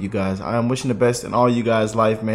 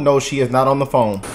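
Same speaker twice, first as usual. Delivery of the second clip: ordinary talk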